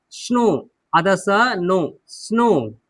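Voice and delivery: स्नो split as half s plus नो, then whole; pronunciation of स्नो. Shown as a demonstration. Teacher shows learners how to read स्नो, sounded out. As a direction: sound out स्नो with a long o and silent w. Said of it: "आप पढ़िए, क्या लिखा है?".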